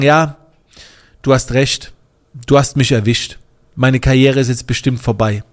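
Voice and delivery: mock-agreeing with a dry ironic edge on "du hast recht"; sarcastic. To a critic accusing him, a sarcastic mock concession. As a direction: play along ironically, tongue in cheek. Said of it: "wenn du jetzt so irgendwie sarkastisch antworten willst".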